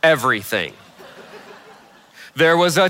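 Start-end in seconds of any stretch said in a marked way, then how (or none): 0.0-0.7 "everything" set apart by a pause; low, falling "everything", said as its own sentence; emphasis on everything. Shown as a demonstration. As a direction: land "everything" alone, deliberately. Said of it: "I wanna emphasize the word".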